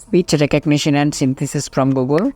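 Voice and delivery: slow repeat. Shown as a demonstration. Teacher repeats slowly.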